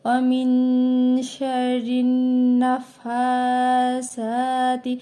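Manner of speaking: very slow recitation, নাফাসাতি drawn out. Shown as a demonstration. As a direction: stretch each vowel one alif. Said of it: "গুণনা হবে". (ধীর তিলাওয়াত)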